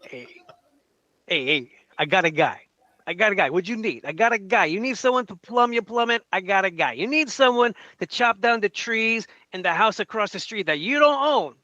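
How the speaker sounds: hammed-up New Jersey wiseguy accent; a mild New Jersey accent pitching his guy. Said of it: "Can you say that in your accent".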